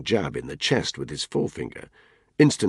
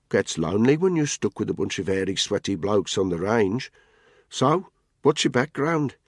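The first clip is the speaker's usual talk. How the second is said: Tony's mocking voice; 5 semitones higher than usual. Tony teases Spud about his bike, mocking and raised. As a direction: needle him with a grin.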